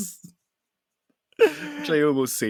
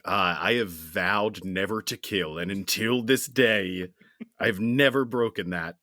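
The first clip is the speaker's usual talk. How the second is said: solemn hero vow; 3 dB louder than usual. Retold or imitated. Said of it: "He's like".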